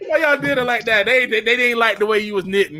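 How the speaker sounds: high, half-laughing comic protest; mock lament. Panelist protesting to chat for the knitter, laughing mock lament.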